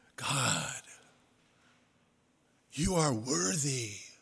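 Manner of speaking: very ethereal, heavenly, otherworldly voice. Illustrating flattery before god while addressing god, very ethereal voice. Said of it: "with a very ethereal voice".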